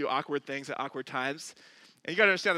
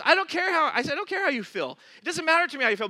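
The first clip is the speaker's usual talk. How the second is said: insistent retort; 9 semitones higher, 5 dB louder, faster than usual. Retold or imitated. Pastor's retort echoed and repeated.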